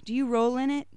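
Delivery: exasperated mother yelling. Acted. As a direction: scold the child over the mud. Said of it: "she yelled at me".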